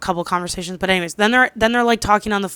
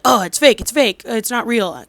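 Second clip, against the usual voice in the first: dismissive denial; 3 semitones higher, 4 dB louder than usual. Retold or imitated. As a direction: imitate someone scoffing it off. Retelling husband's dismissive denial.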